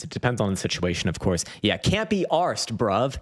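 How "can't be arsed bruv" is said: mock chav accent, drawn out and higher; English chav accent. Streamer mimicking English chavs for his viewers, chav accent. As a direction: imitate English chav speak, slowly. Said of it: "This is the chav speak".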